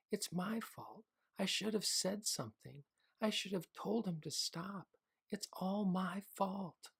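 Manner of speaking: high, sobbing self-blame; a child crying that it's his fault; crying boy. A narrator's reading. Boy blames himself to his parents, crying. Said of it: "Henry began to cry".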